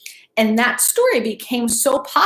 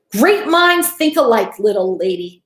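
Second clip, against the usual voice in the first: lightly voiced circus boss praising the girl; showman Barnum voice; 3 dB louder than usual. Teacher voicing Mister Barnum to the class, lightly hammed-up. Barnum answers Hannah in the story.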